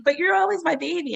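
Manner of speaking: a hint of a high, tender mother; lightly voiced doting mother. Mother to grown daughter, lightly voiced and tender. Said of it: "And she was like".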